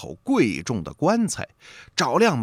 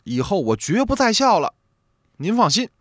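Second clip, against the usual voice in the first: solemn vow; 7 semitones higher than usual. A narrator's reading. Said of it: "一脸严肃，发了重誓".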